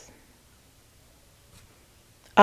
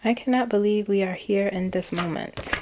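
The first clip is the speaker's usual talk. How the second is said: exasperated. Retold or imitated. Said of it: "Exas-, exasperated".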